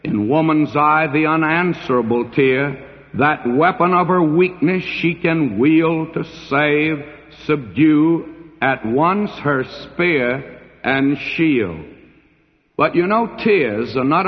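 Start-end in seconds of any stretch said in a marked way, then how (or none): 0.0-11.8 measured reading of romantic verse; poetry recitation. Acted. Preacher quoting Byron to the congregation, lightly heightened poetry recitation. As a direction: recite it in phrases, pausing before the last words.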